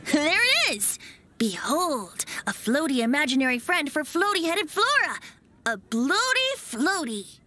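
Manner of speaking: grand reveal. Acted. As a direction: present it like a magic trick.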